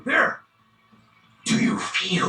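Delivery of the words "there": triumphant. Acted. Villain points triumphantly.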